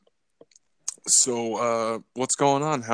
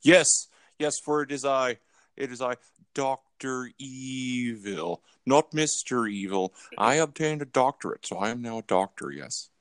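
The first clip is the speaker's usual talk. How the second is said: a hint of a self-satisfied movie villain; Dr. Evil. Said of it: "I lost this accent".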